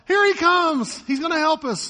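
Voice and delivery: hammed-up high, loud joy; mock thrilled. Preacher voicing thrilled disciples, mock excited and loud. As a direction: cheer like rescue is coming.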